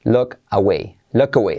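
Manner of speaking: "look away" with "look" close to "lok"; relaxed U in LOOK. Shown as a demonstration. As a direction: model "look" with a short relaxed vowel for repetition. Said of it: "U como semiclave". ("look away" con la U relajada, casi "lok")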